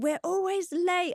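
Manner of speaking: play-acted frazzled, flustered, very high-pitched exclamation. Recalling rushing to get them out the door, always late, retelling flustered rushing. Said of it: "I was flustered".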